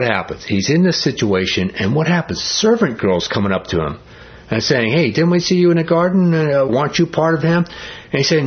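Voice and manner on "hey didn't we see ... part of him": higher, lightly acted challenge; mock-suspicious servant's query; accusing question. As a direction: question him as if you recognise him. Voicing servant girls accosting Peter.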